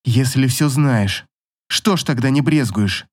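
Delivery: usual speaking voice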